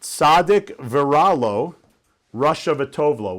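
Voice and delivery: slow, careful Hebrew "Tzaddik Viralo, Rasha V'Tovlo"; a slow Hebrew quote in a talk; Hebrew phrase. Shown as a demonstration. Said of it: "I'll say it in Hebrew".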